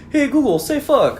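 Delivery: high, put-on voice talking to a smart speaker; voice command. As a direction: bark a command at the gadget. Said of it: "the little robot when you ask it".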